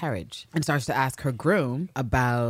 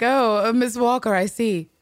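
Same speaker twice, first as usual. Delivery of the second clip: petty sarcastic husband; 4 semitones higher than usual. Retold or imitated. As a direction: lay the sarcasm on thick. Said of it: "then he's like".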